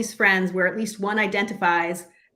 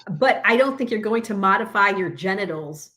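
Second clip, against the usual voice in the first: ordinary delivery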